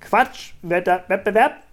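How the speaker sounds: slow, loud cry; shouting. A narrator's reading. Kunibert yells the nonsense word among friends, loud and drawn out. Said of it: "schrie Kunibert".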